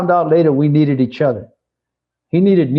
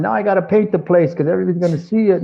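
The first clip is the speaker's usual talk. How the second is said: higher and fast, flustered complaint; mock frantic boss; 6 semitones higher, faster than usual. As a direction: rattle it off like a panicked manager. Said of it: "he's all weird".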